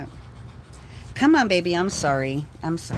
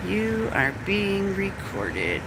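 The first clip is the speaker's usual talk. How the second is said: pointed warning; 3 dB quieter, slower than usual. Real, not acted. Warning the people outside.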